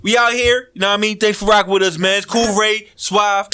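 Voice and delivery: put-on upbeat radio sign-off in California accent. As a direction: hype the show out in a California accent. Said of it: "Why you keep doing the California accent with it?".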